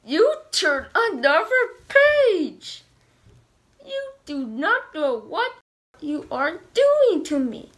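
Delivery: mock-angry monster scolding the reader; hammed-up dismay. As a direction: play exaggerated panic for the kids. Grover upset reader turned page.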